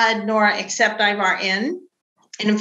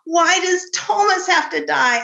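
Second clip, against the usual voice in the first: imitating son; 8 semitones higher than usual. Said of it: "And he's like".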